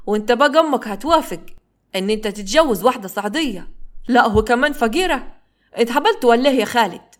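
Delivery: lightly mocking, teasing disbelief. Saqr mocks Khalid's marriage plan: mild mocking tease. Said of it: "بيضحك بتريقة".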